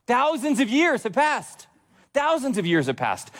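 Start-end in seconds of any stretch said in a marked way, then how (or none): 0.1-1.7 high, slow, stretched-out delivery; emphatic proclamation. Real, not acted. Preacher marvels at the long wait, high emphatic proclamation. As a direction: proclaim THOUSANDS and YEARS high and drawn out.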